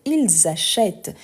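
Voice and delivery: "achètent" slow, with a long open "eh"; open è sound. Shown as a demonstration. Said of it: "pour ouvrir les sons". (« achètent » lentement, avec un è bien ouvert)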